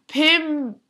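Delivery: Primark with a British lilt; light British Primark; British accent. Shown as a demonstration. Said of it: "you have to say something like Primark in a British accent".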